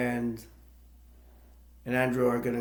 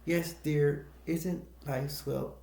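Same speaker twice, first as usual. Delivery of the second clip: mock sugary parents; 2 semitones higher, 4 dB quieter, slower than usual. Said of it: "he imitates the parent".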